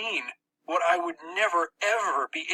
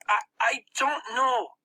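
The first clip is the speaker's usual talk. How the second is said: put-on higher stammering boy voice; 9 semitones higher than usual. Max stammering to the narrator. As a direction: stumble over the first word, lightly voiced.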